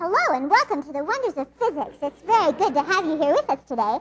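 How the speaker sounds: loud, high helium-breath voice. Greeting the audience after breathing helium: high helium voice. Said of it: "I sound a little bit like Mickey Mouse".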